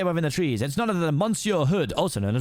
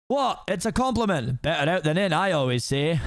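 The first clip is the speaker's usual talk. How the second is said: unabashed ogre; 2 semitones higher than usual. Acted. Ogre defending his belch, lightly voiced and unabashed. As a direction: shrug it off as the ogre, lightly played.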